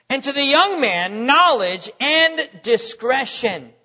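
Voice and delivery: measured pulpit reading of Proverbs; scripture reading. Acted. Preacher reading Proverbs aloud to the congregation, solemn and measured. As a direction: read the verses with weight and cadence.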